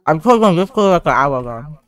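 eating while talking; mouth full. Real, not acted. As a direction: talk through a mouthful. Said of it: "What the hell are you eating?".

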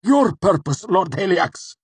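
high, loud strangled answer; agonized, strained submission; choked out. A narrator's reading. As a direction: choke the words out through pain. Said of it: "The words were choked out".

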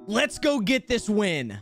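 slow, deliberate recorded voice line; record it as a game announcer, unhurried; measured announcer read. Shown as a demonstration. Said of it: "and then start talking".

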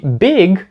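learner's error on "big", g softened to h; mispronounced BIG. Shown as a demonstration. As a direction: say "big" with a breathy h instead of the final g. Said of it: "ці люди кажуть big".

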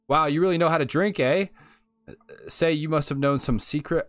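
high, loud, eager read of the line; impressed exclamation. Acted. Reads an excited dialogue line aloud.

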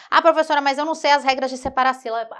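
exaggerated student protest, loud at the start; complaining student. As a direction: burst in as a student making excuses. Acts out a student's excuse.

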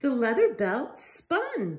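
lively storybook reading voice; reading to children. Acted. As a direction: read it out to little ones with life. Reads picture book to children.

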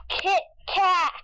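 laughing. Real, not acted. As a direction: giggle out Kit Kat. Wordplay repeated laughing.

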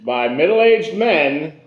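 slow, drawn-out trailer voice; movie trailer guy. Pretend. Host finishing the mock trailer for whiskey and cigar, slow announcer. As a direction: stretch each phrase like a hammed-up announcer. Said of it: "I can do the movie guy".

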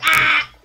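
loud sudden mock yell; imitated shout. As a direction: bark out a loud Ah. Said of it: "He's just like".

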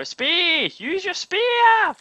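high, loud urgent yell, drawn out slowly; pretend yell. Asking viewers to yell at him in a raptor panic, high pleading shout. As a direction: bark the order at a panicking player. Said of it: "I need you to yell at me and go".

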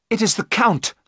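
high-pitched, alarmed exclamation; horrified cry. A narrator's reading. Jonathan points out the Count to Mina, crying out. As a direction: gasp it out high, in horror. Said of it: "gave a terrible cry".

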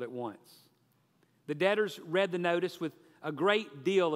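lively, emphatic storytelling delivery; story narration. A narrator's reading. Preacher telling the congregation about the rich employer, animated narration. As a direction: tell the parable with energy and measured pauses.

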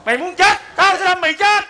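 hammed-up robber yell; mock threat shout. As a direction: redo the stab with menace. Retake of the stabbing.

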